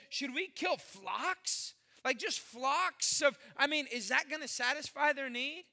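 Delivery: slow, doubtful mock question; a touch of sarcastic disbelief; lightly voiced Moses questioning God. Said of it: "A little bit of sarcasm".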